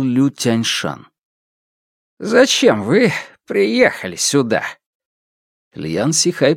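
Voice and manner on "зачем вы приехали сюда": swooping, pointed question; wary challenge. A narrator's reading. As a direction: demand to know why they came. Village elder confronts visitors.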